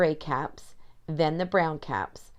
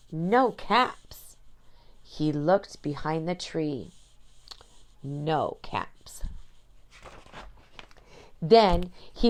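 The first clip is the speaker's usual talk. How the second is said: put-on animated storytelling for young children; picture-book narration. A narrator's reading. Reading a story about a cap peddler to children, animated storytelling. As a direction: read it aloud with big, deliberate emphasis and pauses.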